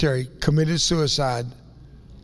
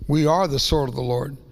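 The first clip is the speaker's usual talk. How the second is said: normal talking voice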